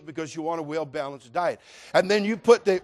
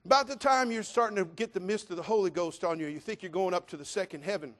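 normal talking voice

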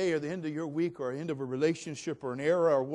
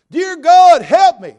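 high, loud pleading to God; desperate prayer; 14 semitones higher, 23 dB louder, slower than usual. Acted. Dangling man begs God, high and loud. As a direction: cry up to heaven for help. Man hanging prays aloud.

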